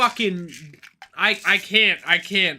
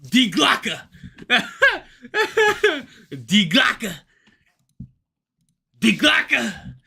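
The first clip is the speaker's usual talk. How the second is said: saying "Die Glocke" through a laugh; slower than usual. Real, not acted. Repeating a German phrase, laughing.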